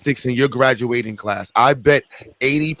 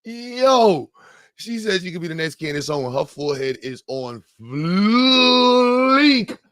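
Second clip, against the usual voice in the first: mocking; 4 semitones higher, slower than usual. Mocking the clip's compliment.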